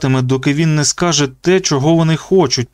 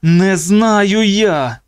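desperate cry; 7 semitones higher, much slower than usual. Acted. Luke tortured, pleading.

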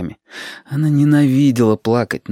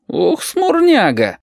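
very slow, high, drawn-out; teasing; 12 semitones higher, much slower than usual. Acted. Shut greets gloomy Dima with a slow, teasing exclamation. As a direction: tease him grandly.

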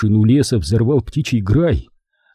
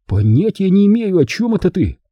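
struggling denial; 8 semitones higher than usual. Acted. Charlie struggles, denies.

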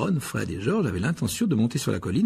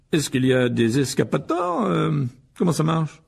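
slow, eager questions; hungry for Muggle details; fascinated Mr Weasley; 4 semitones higher, 4 dB louder, slower than usual. Acted. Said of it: "très intéressé". (M. Weasley passionné, lent)

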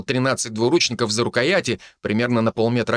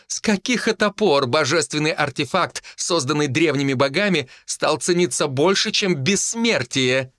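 amused mocking; 5 semitones higher than usual. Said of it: "В голосе Живилы послышался смех".

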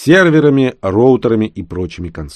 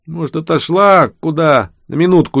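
snide, teasing question, pitched up; 9 semitones higher, 5 dB louder than usual. Acted. Genka mocking the narrator over the shelf, snide. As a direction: needle him with a sly sneer. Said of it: "ехидно спросил Генка".

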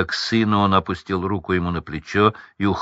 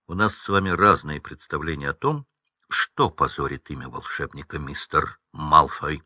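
curt retort; 6 semitones lower, 5 dB quieter than usual. Acted. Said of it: "отрезал он".

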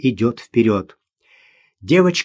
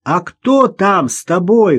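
higher, drawn-out questioning call; surprised shout; 6 semitones higher, 4 dB louder, slower than usual. A narrator's reading. Man in trouble asks who is there, calling out surprised. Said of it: "крикнул Ростовцев, явно удивлённый".

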